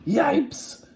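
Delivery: put-on very high, loud kids' yelp; frightened cry. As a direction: yelp like scared kids. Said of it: "cried the kids".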